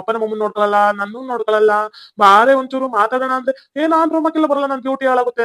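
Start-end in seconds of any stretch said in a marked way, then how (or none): 3.8-5.4 lightly mocked wife, pitched up at first; imitating his wife. Husband quotes his wife's refusal to his lover, mildly mimicking. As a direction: mimic her refusal in a higher voice. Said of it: "ಅಂತಾಳೆ".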